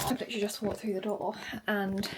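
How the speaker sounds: panting after walking in; breathless from rushing home; out of breath. Real, not acted. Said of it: "I'm out of breath".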